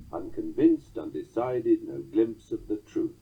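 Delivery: "Unconvinced, undecided, no glimpse of the truth" in four even beats; measured titty-TUM reading of "Unconvinced, undecided, no glimpse of the truth"; anapestic tetrameter. Shown as a demonstration. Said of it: "listen to this anapistic tetrameter".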